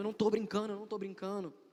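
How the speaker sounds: frantic, high-pitched, desperate pleading insistence. Retelling a cousin insisting he was not joking: imitating desperation. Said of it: "ele começou a ficar muito desesperado".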